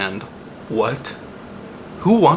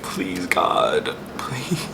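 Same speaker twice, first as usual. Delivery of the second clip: high, frantic mock prayer; imitating a panicked bathroom prayer; desperate plea; 10 semitones higher than usual. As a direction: beg God in a pinched, pleading voice. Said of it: "being like".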